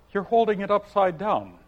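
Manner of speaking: lightly voiced young girl cutting in; Alice interrupting. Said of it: "Alice interrupted".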